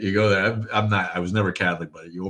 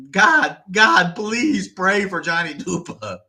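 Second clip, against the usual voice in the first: high, slow, loud plea; hammed-up wailing prayer; mock pleading; 10 semitones higher, 5 dB louder, much slower than usual. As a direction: beg heaven in drawn-out mock desperation. Mock plea voiced in the bit.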